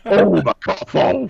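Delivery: giggling through the words; laughing. Real, not acted. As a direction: laugh as you say it. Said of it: "You gotta say it with".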